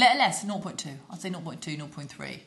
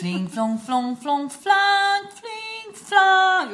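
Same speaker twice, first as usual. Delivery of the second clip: high mock recorder notes, climbing and getting louder; imitated recorder squawks; 13 semitones higher, 6 dB louder, much slower than usual. Parent recalling child's recorder practice, imitated squawky notes. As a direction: toot like a badly played recorder.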